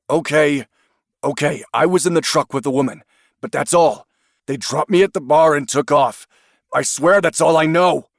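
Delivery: fast, high, pleading confession; nervous confession. Acted. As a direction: give in nervously. Suspect caves under pressure.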